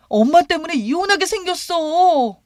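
high, loud outburst; accusing son. A narrator's reading. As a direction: blame your mother angrily. Son blames mother in quarrel.

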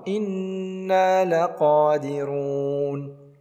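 slow recitation of the phrase; drawn-out tajweed reading; recited slowly. Shown as a demonstration. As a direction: stretch إنا with a held nasal ghunna. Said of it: "نون مشددة حركتان بغنة".

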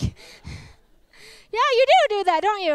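high, airy, playful coaxing; lightly voiced Lord gently teasing; a hint of a knowing divine voice; teasing, knowing voice of God. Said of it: "You know, like".

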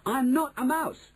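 slow, high-pitched outraged denial; outraged boy's emphatic high wail; indignant cry. A narrator's reading. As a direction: cry it out high, drawing the words out. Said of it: "he cried".

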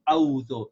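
"أعوذ" squashed into "ow-dhu"; quick "أعوذ" with no throat consonant, as "ow-dhu"; two-syllable slip. Shown as a demonstration. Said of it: "we say it as two".

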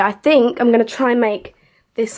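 ordinary talk

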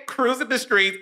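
a hint of mock pop-star croon; an R&B singer. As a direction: lightly put on an R&B star's voice. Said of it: "In my R&B singer voice".

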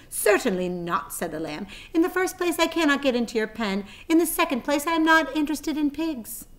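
high, haughty lamb voice; snooty lamb. Acted. Lamb refusing the pig, high and haughty. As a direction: look down your nose at a pig.

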